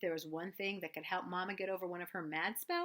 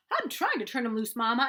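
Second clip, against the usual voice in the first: loud, higher protest; shouted; 4 semitones higher, 9 dB louder than usual. A narrator's reading. Boy shouting back at Mama while the goose flaps, loud. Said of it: "I shouted".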